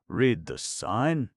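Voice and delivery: slow, high commanding order; directing. A narrator's reading. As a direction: spell it out as an order. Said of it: "directed Kabumpo".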